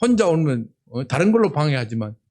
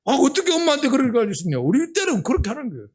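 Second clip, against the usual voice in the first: lightly voiced classmate, higher and quick; quoting a classmate; 6 semitones higher, faster than usual. Preacher retelling what a Gyeongsang classmate said, lightly voiced. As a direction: toss off the classmate's excuse. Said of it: "우리 동기생한테 들었다니까요".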